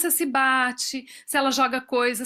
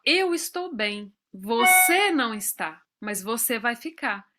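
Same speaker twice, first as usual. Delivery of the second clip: calm reassurance; 3 semitones lower than usual. Retold or imitated. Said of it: "eu tenho que dizer pra ela".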